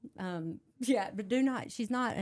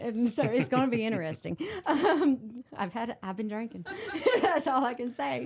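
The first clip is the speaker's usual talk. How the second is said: giggling through it, louder; laughing; 3 semitones higher, 6 dB louder than usual. Real, not acted. Tipsy singer telling the host she's been drinking, giggling. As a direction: laugh while confessing.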